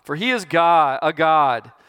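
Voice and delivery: loud taunting call; mocking. Elijah mocking Baal's prophets, a loud taunt. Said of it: "Elijah mocked them".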